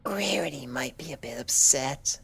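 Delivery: high, soft, unvoiced whisper; whispered to herself. A narrator's reading. Fluttershy whispers to herself about Rarity, soft and amused. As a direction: whisper it to yourself with a giggle. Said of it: "she told herself".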